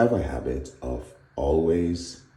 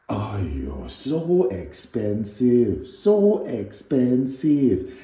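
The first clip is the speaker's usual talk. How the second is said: mock Malaysian accent; 6 semitones higher, 4 dB louder, much slower than usual. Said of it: "she's Malaysian and it's a horrible accent".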